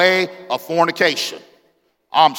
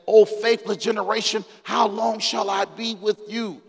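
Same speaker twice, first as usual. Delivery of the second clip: mildly vexed, raised-pitch rebuke; exasperated scripture quote, pitched up but not shouted; a touch of weary indignation; angry Jesus; 5 semitones higher than usual. Acted. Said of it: "This is Jesus mad. He's upset. He's angry".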